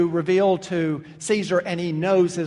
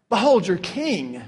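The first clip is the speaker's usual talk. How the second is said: sarcastic. Acted. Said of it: "that's sarcasm".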